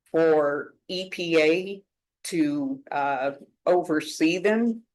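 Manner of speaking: ordinary talk, nothing marked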